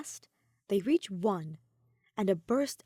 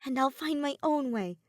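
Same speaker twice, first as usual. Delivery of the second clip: higher, rising, louder at the end; tender reply; 7 semitones higher, 4 dB louder than usual. A narrator's reading. Soleil answering Ophelia under fireworks, higher and heartfelt.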